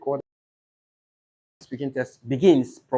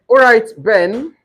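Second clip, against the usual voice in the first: examiner and candidate; 3 semitones higher, 6 dB louder than usual. Shown as a demonstration. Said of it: "Then examiner will go like".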